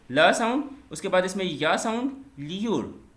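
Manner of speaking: ordinary talk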